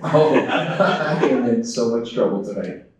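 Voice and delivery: slow, laughing self-mockery; amused mock panic. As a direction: laugh through the dread. Panicked husband realizing his slip.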